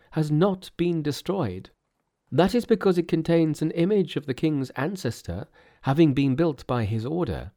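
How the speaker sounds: high-pitched, explaining priest; earnest Buddhist priest. Acted. Priests invite Tripitaka.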